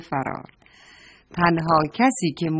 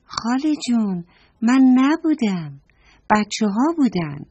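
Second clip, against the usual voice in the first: put-on child voice; 4 semitones higher than usual. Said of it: "گفت".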